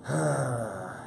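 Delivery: long, falling sigh. Real, not acted. Streamer still hearing nothing, long sigh. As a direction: let the breath out slowly.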